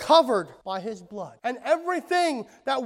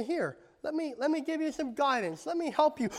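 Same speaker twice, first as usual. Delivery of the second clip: soft, higher-pitched coaxing; gentle offer; 4 semitones higher, 5 dB quieter than usual. Acted. Father stepping in to guide his frustrated son, gentle offer. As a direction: offer help softly and patiently.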